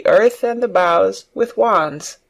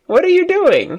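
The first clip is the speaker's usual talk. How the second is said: surprised; 12 semitones higher than usual. Acted. Colin amazed at Mary's talk.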